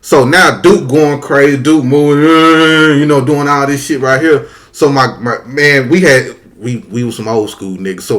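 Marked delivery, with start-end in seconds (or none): 1.9-3.0 long held cow bellow; imitated cow moo. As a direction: moo like a cow going crazy.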